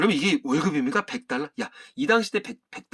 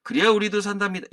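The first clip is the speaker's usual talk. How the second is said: voice of employee Jeong; 3 semitones higher than usual. Acted. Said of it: "사원 정의 목소리로".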